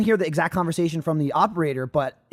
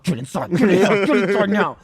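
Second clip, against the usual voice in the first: laughing urgent order. Retold or imitated. Urging friend inside, laughing.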